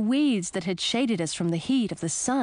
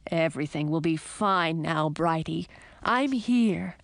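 reassuring; 3 semitones lower than usual. Acted. Prince comforts his horse.

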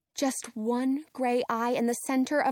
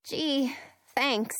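sniffling. Acted. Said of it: "I reply, sniffling".

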